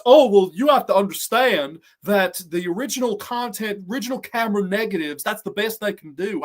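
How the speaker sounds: lightly voiced condescending know-it-all; a hint of a TV advice host lecturing people; Doctor Phil voice. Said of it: "I sound like Doctor Phil".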